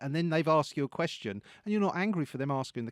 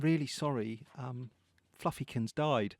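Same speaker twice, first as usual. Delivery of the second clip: wrongly amused condolence; 5 semitones lower, 6 dB quieter than usual. Retold or imitated. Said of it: "incorrect emotional response".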